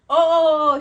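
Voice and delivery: high, loud string of oh's; excited squeal. Retold or imitated. Friend squealing excitedly about her skirt. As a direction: squeal over and over with delight. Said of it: "And she goes".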